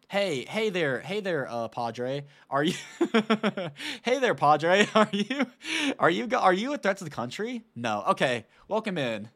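hammy, chuckling border agent; laughing mock agent. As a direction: play the lazy guard, giggling through it. Mocking a lax border screening, laughing.

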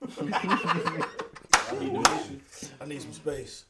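slow, whispered, drawn-out plea; soft pleading breakup line. Retold or imitated. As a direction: drag it out softly with a laugh. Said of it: "hit her with the line".

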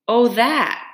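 quick, high nervous brush-off; startled mother covering up; mock-casual nervous mother. A narrator's reading. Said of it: "answered quickly, nervously".

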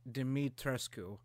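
"Dimitrescu" slowly, E as in ear; careful pronunciation. Shown as a demonstration. Cohost summing up the pronunciation guide, careful pronunciation. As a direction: say "Dimitrescu" slowly as dim-ee-tres-koo. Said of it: "how to pronounce her fucking name".

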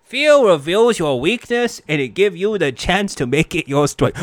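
a lightly voiced Elmer Fudd by mistake. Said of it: "Why did I say that in Elmer Fudd's voice?".

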